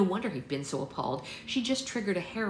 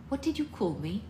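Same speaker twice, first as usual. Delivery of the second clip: indignant mother; 6 semitones higher than usual. Acted. Mother answers insult.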